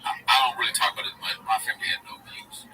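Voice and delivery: lightly voiced bro giving advice; Schultz impression. Mimicking a podcaster lecturing fans, lightly voiced bro. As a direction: preach code switching like a hustle guru. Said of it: "Schultz is his character".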